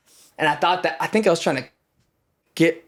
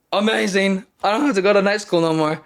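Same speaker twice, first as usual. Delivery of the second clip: put-on kid's delight; 7 semitones higher, 3 dB louder than usual. Kid thrilled to quit school.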